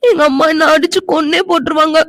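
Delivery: tearful sobbing plea; crying. Acted. Girl crying to the man about her mother. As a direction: cry out the fear of mother. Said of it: "அழாத".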